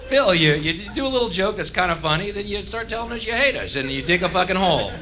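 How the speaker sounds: high-pitched voice critiquing the comic; mock audience member. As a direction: pitch it up as a puzzled fan. Voices audience commenting on his act.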